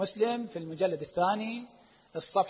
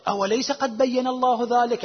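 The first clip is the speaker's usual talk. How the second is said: a touch of wonder on الله, slower; mild astonishment; 4 semitones higher, 5 dB louder than usual. Retold or imitated. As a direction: ask it gently, half amazed. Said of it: "عبارة تعجب من النبي". (تعجب خفيف في "الله")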